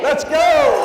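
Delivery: high full-voice yell; stadium shout. Real, not acted. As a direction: roar it to the crowd. Crowd chant finale.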